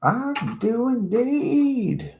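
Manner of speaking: very high, slow, put-on posh; drawn-out fancy aristocrat; mock posh voice.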